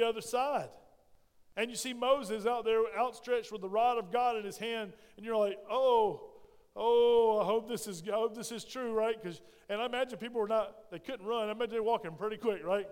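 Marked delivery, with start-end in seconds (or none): 5.7-8.9 loud, anxious cry, hoping it holds; fearful hope. Acted. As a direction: gasp out your hope as the water towers. Israelites crossing sea, fearful hope.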